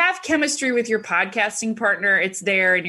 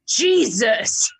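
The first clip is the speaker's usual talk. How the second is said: shout; 3 dB louder than usual. Retold or imitated. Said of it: "and he went".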